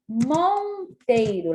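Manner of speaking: Monteiro drawn out slowly, syllable by syllable; slow syllable-stretched Monteiro. Shown as a demonstration. Teacher stretching Monteiro for pupils, slow and clear. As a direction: spell out Monteiro slowly for the class. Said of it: "Observe que o N está antes do T".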